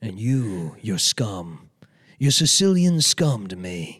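drawn-out mock contempt, rising to a loud finish; Jennifer Melfi. Therapist calling her Sicilian client scum, slow hammed-up disdain. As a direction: sneer it as a parody haughty therapist. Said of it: "as Jennifer Melfi".

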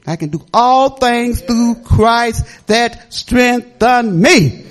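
slow church proclamation; proclaiming scripture. Real, not acted. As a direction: testify it like a sermon line. Testifying, quoting scripture.

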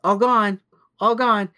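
lightly imitated mom soothing; gentle to toddler. Mom telling toddler the milk is finished, sing-song. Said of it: "Erica went".

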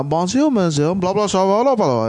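hammed-up French accent; light French maître d' accent. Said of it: "got a French accent".

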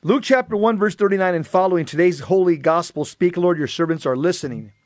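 measured, projected scripture reading; solemn read-aloud with pauses between phrases; gospel reading. Acted. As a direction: proclaim the reading to a congregation.

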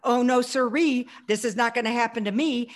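put-on smart aleck teen. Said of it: "I was a smart aleck teenager".

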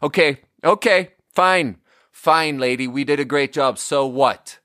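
mock impatient brush-off; grudging acceptance. Retelling reply to a happy customer, mock grudging. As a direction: play at dismissing unwanted praise. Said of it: "Instead, I had to be like".

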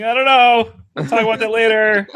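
flustered dad. Retold or imitated. Dad dodging his daughter's baby question, high flustered voice. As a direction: dodge the question in a panic. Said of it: "I'm like".

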